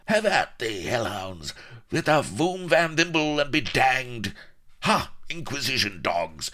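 high, loud capering scarecrow fighting; crazed old gardener. Acted. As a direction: whoop defiance at the Inquisition dogs. Shafto's battle cry.

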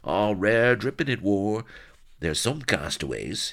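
high, wistful rustic whimper. A narrator's reading. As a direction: cadge food in a whining yokel voice. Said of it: "he whimpered".

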